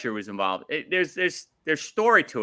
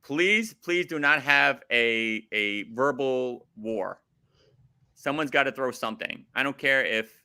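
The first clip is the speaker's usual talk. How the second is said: impassioned pleading. Real, not acted. Fan begging the wrestlers for action, impassioned pleading.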